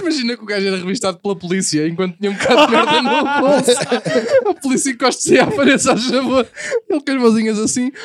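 laughing. Real, not acted. Telling a funny story, laughing.

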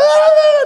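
loud, very high wail of "ai"; hammed-up cries of pain; mock wailing. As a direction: yelp it high and long. Acted wailing while being tied up.

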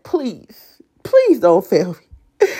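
heartfelt plea to God; pleading prayer. Retold or imitated. Asking God not to fail her, pleading. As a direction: beg earnestly, leaning on "please". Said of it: "I'm praying and I'm asking God".

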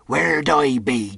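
slow, pressing pirate question; pleading pirate question. Acted. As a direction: lean on it, slowly. Silver repeats the question.

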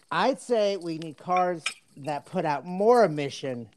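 put-on lawyer addressing the judge in a Southern accent; mock Southern courtroom plea. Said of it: "I need to have a Southern accent for this".

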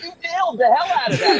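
high, hammed-up congratulation; over-the-top cheering praise; hype man. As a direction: pump him up with mock enthusiasm. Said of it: "Hype him up so much".

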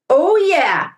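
put-on fired-up boys cheering together; excited cheer. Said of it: "the brothers cried".

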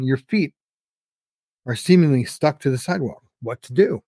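storyteller reading to the audience; story narration. Acted. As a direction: spin the tale with rising suspense. Reads his short story.

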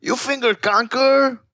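mock outraged friend; shocked high question. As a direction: voice jumps way up in disbelief.

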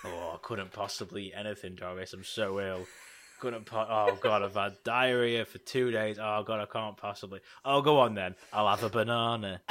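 soft, low, feeble sick-man whimper; hammed-up invalid moaning to Doris; simpering. Acting a sick old man.

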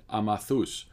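name said the Cypriot way, ah-mah-THOOS; Cypriot accent. Retold or imitated. Nephew naming a lunch spot to the aunt, Cypriot accent. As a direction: say Amathus with a Cypriot accent, broad open A's. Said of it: "in a characteristic Cypriot accent".

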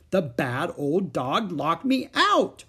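put-on high, loud child's whine; crying child. A narrator's reading. Little girl crying her excuse to mother. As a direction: whimper the excuse, blaming the dog. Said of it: "cried Ramona".

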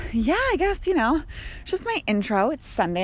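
breathless from brisk walking; out of breath. Real, not acted. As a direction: talk while catching your breath. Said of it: "I'm a little out of breath".

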